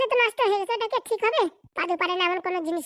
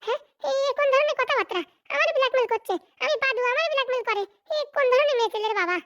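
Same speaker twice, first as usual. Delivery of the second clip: higher-pitched indignant rant; 4 semitones higher than usual. Acted. Padu rants to himself about being blackmailed, indignant. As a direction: fume at the wife's threat.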